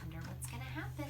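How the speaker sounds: hushed fast wondering; quick aside. Acted. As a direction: rush the question to the kids. Reader's aside.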